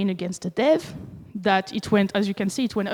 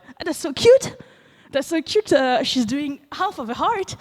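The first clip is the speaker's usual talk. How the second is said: gushing; 5 semitones higher than usual. Retold or imitated. Speaker recalls first seeing the cute character, gushing. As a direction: coo over something adorable. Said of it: "I was like".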